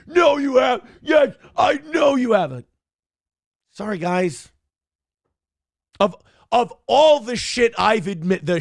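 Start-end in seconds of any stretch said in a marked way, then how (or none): 0.1-2.7 high, loud mock yell of disbelief; hammed-up shouted denial. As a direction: yell it back like the shocked fans. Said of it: "And people go like".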